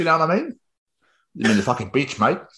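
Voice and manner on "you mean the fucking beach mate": put-on Australian accent. Imagining an Aussie replying to talk of the seaside: Australian accent. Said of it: "the Aussie accents".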